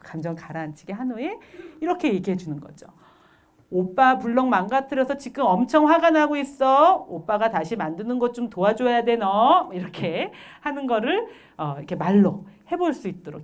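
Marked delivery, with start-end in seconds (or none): 3.7-9.7 louder, firm recited line; acted child stating feelings. Older brother to younger sibling, firmly explaining.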